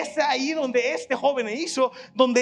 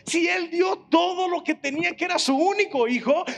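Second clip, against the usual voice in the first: raised, ringing preacher's voice; preaching at full force; 4 semitones higher than usual. Real, not acted. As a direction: build the fervour and drive it home. Preacher building to climax. (predicando con fuerza y voz elevada)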